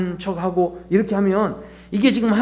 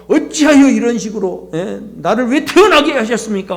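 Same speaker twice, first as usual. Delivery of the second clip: mildly indignant, emphatic protest; complaining to God; 2 semitones higher than usual. Acted. Bible figure openly complaining to God, mildly indignant protest. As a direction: press each question as a grievance. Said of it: "하나님 앞에 막 마음껏 불평하고".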